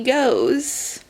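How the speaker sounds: slow, teasing and she goes; drawn-out buildup. Shown as a demonstration. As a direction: stretch out goes with a rising pull. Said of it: "and she goes".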